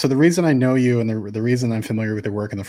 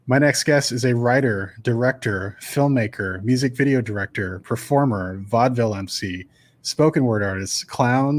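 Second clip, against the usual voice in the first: measured, scripted announcer delivery; podcast intro read. Acted. Host introducing a vaudeville guest, formal intro read. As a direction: present the guest with list-like build.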